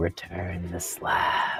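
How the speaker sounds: creepy, eerie, drawn-out voice. Voicing a voice heard during the fight: creepy drawn-out voice. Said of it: "a creepy, drawn-out voice saying".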